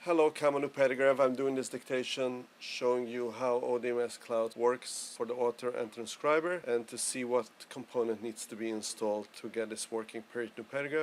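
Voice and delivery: dictating a letter into the app, speaking the commands. Shown as a demonstration. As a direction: read it out as a dictated memo. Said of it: "I will start my dictation".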